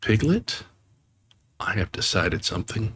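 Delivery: mildly solemn, as if announcing news. Acted. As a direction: Pooh confiding to Piglet, mildly solemn. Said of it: "in a very solemn voice".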